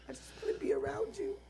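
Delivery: hushed, pleading whisper. Retold or imitated. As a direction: whisper it as if holding back tears. Retelling crying in the car.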